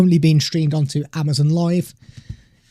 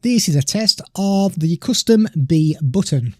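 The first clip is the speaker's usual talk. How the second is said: recorded test message. Shown as a demonstration. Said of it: "If I hold one down".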